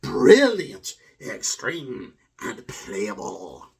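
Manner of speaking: lightly voiced devil retail clerk; hammed-up devil salesman. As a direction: play a devil pitching from behind the counter, slowing at the end. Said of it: "that is my acting and performance of".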